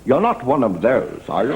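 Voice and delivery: slow, suspicious colonel; mock British officer's drawn-out doubt; commanding officer. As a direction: probe the lieutenant warily in character. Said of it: "people who talk like that".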